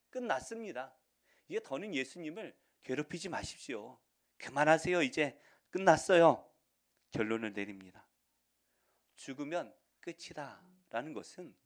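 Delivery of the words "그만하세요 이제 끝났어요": loud insistence. Acted. Messengers tell Jairus to stop.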